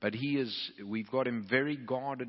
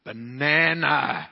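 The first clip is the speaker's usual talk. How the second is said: deadpan reply; 4 semitones higher, 11 dB louder, much slower than usual. Retold or imitated. Husband's deadpan reply retold.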